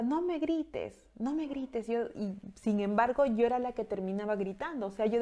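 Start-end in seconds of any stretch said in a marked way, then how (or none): 0.0-1.9 high, slow, plaintive plea; pleading don't yell. Retold or imitated. Daughter pleading with her shouting father, high and slow. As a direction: beg him softly to stop shouting. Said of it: "y yo decía".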